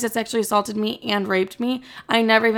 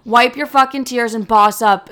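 tough-love sister; 2 semitones higher, 8 dB louder than usual. Retold or imitated.

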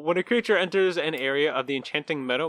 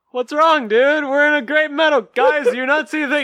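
much higher, louder spaced-out stoner voice; stoned fighter; 11 semitones higher, 6 dB louder than usual. Retold or imitated. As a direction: play a blissed-out stoner who sees nothing wrong. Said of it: "the fighter's like".

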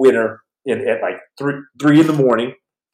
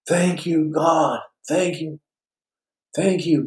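grateful prayer; 5 semitones higher, 5 dB quieter, slower than usual. Retold or imitated. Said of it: "and it was like".

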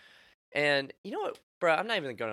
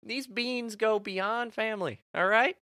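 mock stand-off; 9 semitones higher than usual. Comedian jokingly standing up to his mom, mock stand-off. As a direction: lay down the law to mama, playfully.

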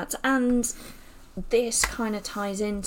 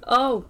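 sneezing; 3 semitones higher, 4 dB louder than usual. Real, not acted. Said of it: "sorry, I'm gonna sneeze now".

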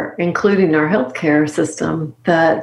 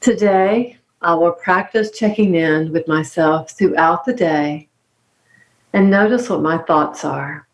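reading aloud. Acted. Guest reads the closing card to the host, calm and measured. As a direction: read the card calmly, pausing between lines. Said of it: "would you mind reading this last part".

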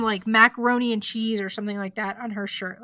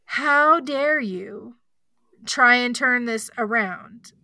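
indignant; slower than usual. Retold or imitated. Emily confronts Jessie at bathroom door.

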